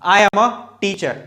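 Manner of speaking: slow, each word set apart; slow model sentence. Shown as a demonstration. Teacher modelling an example sentence slowly. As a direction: spell it out slowly for the class. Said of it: "अगर मैं बोलूंगा तो क्या बोलूंगा".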